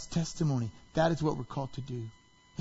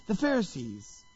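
nice; 2 semitones higher than usual. Retold or imitated. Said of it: "he starts off very nice".

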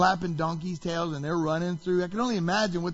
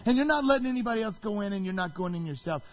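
quick, raised accusation; really loud; 3 semitones higher, faster than usual. Retold or imitated. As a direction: fire it off higher and faster. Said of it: "then it gets really loud".

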